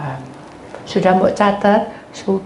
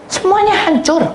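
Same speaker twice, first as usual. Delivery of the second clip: crying out; 12 semitones higher, 4 dB louder than usual. Acted. Preacher shouts despair.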